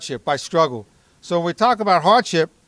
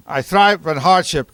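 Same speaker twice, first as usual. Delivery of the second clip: slow, loud drill chant; loud gung-ho soldier; 5 dB louder, slower than usual. Shown as a demonstration. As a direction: bark it out like a soldier. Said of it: "You go down, you can start".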